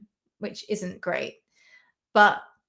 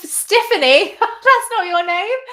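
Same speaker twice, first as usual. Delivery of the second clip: laughing at own slip; 9 semitones higher, 9 dB louder, slower than usual. Real, not acted. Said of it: "oh my God, Sniff".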